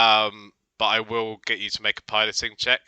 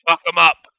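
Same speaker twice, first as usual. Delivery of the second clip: roared battle cry, high and loud; bellowing over the wind; 6 semitones higher, 14 dB louder than usual. Acted. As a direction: bellow it across the deck. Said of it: "Bosun Tarto's voice going".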